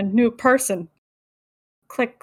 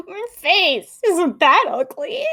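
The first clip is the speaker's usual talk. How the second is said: slow character voice; 5 semitones higher, slower than usual. Retold or imitated. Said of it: "voicing the character".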